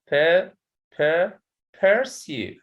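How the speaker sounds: "per" alone, then slow "pursue" with stressed SUE; teacher breaking "pursue" into syllables; stress on second syllable. Shown as a demonstration. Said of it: "So the stress in sa".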